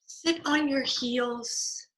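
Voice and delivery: soft unvoiced whisper, slow. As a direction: hush it like a secret. Calm yoga cue for kids.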